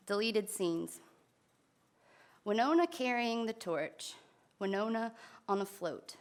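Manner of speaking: measured recital with pauses between lines; poetry reading. Acted. Poet reads deleted scenes about Winona to an audience, poetry reading. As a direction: read each image as its own phrase.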